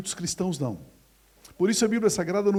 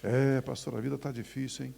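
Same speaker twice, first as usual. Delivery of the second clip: gloomy church member; 4 semitones lower, 4 dB quieter than usual. Retold or imitated. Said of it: "Aí você cumprimentou".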